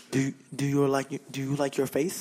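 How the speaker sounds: low, flat radio promo voice; deadpan DJ promo read; depressed morning DJ. Acted. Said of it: "You sound like a depressed morning D J".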